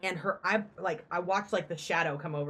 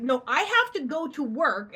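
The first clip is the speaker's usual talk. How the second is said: firm no; 7 semitones higher, 4 dB louder than usual. Retold or imitated. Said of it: "And I'm like".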